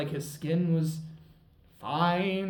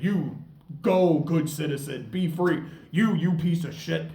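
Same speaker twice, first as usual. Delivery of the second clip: louder, righteous mock reprimand; knightly scolding; 2 semitones higher, 7 dB louder than usual. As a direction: scold him like a self-important knight.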